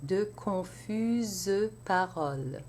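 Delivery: confuses with its E said as a separate syllable, slowly; mute E sounded. Shown as a demonstration. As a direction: give confuses three syllables. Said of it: "pronounce the E as a separate syllable".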